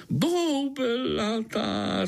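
slow, high, savoured boubelatá; hungry gnat beaming at the news; delighted. A narrator's reading. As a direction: relish boubelatá drawn out with glee. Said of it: "rozzářil se komár".

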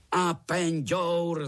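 high, slow, loud joint roar; roared in chorus. A narrator's reading. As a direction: bellow the answer slowly, all together. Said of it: "zařvali všichni strýčci sborem".

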